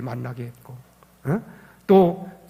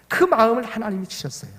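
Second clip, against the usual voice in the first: normal talking voice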